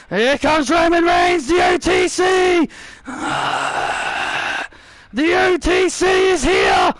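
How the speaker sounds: shouted ringside play-by-play; wrestling commentator. Acted. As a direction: hype every move as it happens. Live play-by-play of a match.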